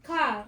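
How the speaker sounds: "Car" with the R dropped. Shown as a demonstration. Speaker explaining her twang, "Car" with no final R. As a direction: say "Car" without sounding its final R. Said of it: "I'm dropping my R".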